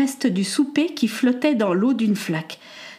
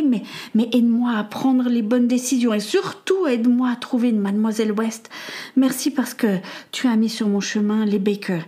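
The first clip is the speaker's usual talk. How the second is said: earnest prayer. Acted. Samuel asks God for help at night, earnest prayer. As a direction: pray with a touch of worry.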